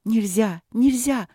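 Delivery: frantic, angry warning; angry and alarmed. Acted. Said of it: "сердитая и очень встревоженная Василина".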